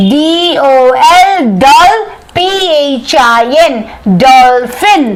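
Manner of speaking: "dolphin" spelled D O L, then P H I N, syllable by syllable; sounding out words. Shown as a demonstration. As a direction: split "dolphin" into dol- and phin, letter by letter. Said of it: "break it into syllables".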